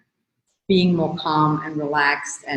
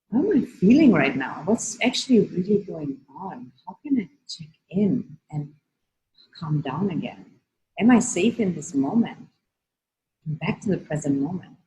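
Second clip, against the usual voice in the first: gentle self check-in; 4 dB quieter than usual. Shown as a demonstration. Coach modelling a calm inner check-in, softly. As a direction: ask yourself softly and calm down. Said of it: "take a moment to listen in".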